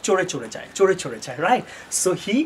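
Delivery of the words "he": slow model sentence. Shown as a demonstration. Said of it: "রাইডস হবে".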